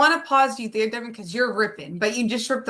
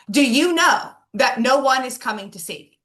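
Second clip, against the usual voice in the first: a touch louder and firmer, mimicking the mentor; voice toned up; 3 dB louder than usual. Retelling her mentor Sean pressing her, a touch louder. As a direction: lightly raise the intensity, pressing the question. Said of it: "he toned his voice up".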